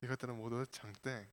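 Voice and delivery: low, soft voice with a French accent. Shown as a demonstration. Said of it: "목소리 낮게 하고 프랑스 발음으로".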